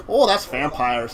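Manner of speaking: slow, lightly put-on Minnesotan; drawn-out mock Minnesotan answer; Minnesotan accent. Explaining kindred to the cockroaches, Minnesotan accent. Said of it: "I did a really good Michigan accent".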